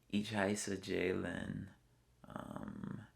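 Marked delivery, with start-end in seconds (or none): 0.1-1.7 slow, deliberate German words; careful German. Shown as a demonstration. Traveler put on the spot speaks German slowly. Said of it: "Can you say anything?".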